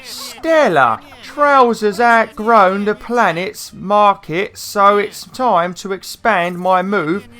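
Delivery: high, drawn-out Cockney salesman snake; Trouser, Cockney snake. Acted. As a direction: play a slow, loud Cockney snake with a high pitch. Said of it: "doing the Cockney Snake's voice".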